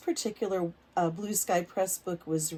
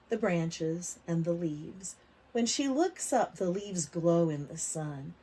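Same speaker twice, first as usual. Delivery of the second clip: put-on reading to children; slower than usual. A narrator's reading. Teacher reading a picture book aloud to kids. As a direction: lively, clear storybook reading for little ones.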